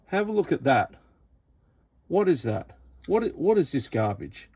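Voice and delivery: high, disbelieving; incredulous disgust. Real, not acted. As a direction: show it off in disbelief. Showing bodged heat sink.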